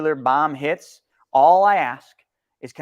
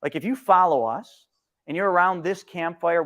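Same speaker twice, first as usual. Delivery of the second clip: ordinary talk, nothing marked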